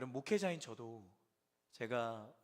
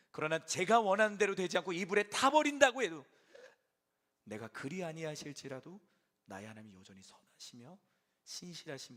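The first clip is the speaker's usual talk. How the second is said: prayer of faith; 7 dB louder than usual. Acted. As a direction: pray it out, swelling then surrendering. Preacher voices a faith prayer.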